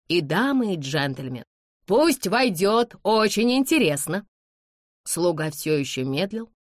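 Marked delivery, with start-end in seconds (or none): 1.9-4.3 higher, drawn-out eagerness; eager exclamation. A narrator's reading. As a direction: clamour keenly for her to come. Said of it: "закричала молодёжь". (оживлённо, с восторгом)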